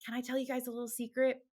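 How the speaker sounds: sugary high hostess. Retold or imitated. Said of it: "I'd be like".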